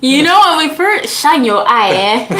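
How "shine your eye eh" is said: Nigerian saying. Retold or imitated. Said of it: "That's like a Nigerian saying".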